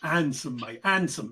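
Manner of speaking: Essex handsome with dropped h; Essex accent. Shown as a demonstration. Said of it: "That's how you say it".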